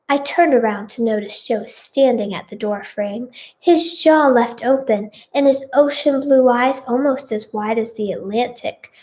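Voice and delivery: put-on children's TV storyteller narration; story narration. A narrator's reading. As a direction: read it out like a storyteller. Reads fan fiction aloud.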